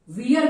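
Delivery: we are run together as we're; we're as one word. Shown as a demonstration. Teacher showing learners how to pronounce we are, joined as we're. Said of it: "We are का pronounce guys आप".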